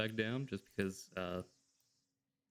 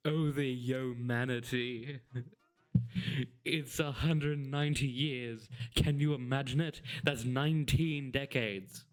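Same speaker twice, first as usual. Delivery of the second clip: hammed-up dramatic. Voicing Whisper's dramatic lines.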